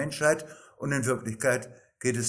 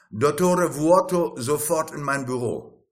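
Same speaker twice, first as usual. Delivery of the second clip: calling out; 4 semitones higher, 6 dB louder than usual. Acted. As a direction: bark the name across the office. Boss calls for Vuoto.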